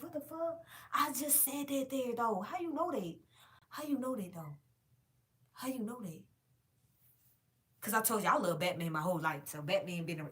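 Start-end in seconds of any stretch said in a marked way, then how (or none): 0.0-6.2 disbelieving. Retold or imitated. Retold disbelief, repeated question.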